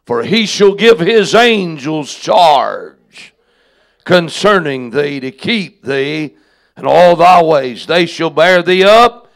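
solemn Bible reading; solemn scripture reading. Acted. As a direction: read it like Scripture from the pulpit. Reads most famous part of psalm.

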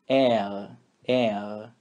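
R said as the French letter name. Shown as a demonstration. Teacher names the letter R in French. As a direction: say R the French way, twice. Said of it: "o nome da letra é".

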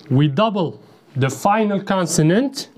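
slow, careful recital of the rule. Shown as a demonstration. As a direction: recite the rule slowly for the class. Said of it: "rule recited slowly".

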